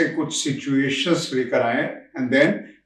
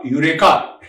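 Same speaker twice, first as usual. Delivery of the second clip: a touch of a triumphant cry, louder, with a laugh; Archimedes; 3 semitones higher, 5 dB louder than usual. Acted. Speaker likens his own discovery to the famous one, mock triumphant cry. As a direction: call out a discovery, half-laughing. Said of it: "Archimedes की तरह".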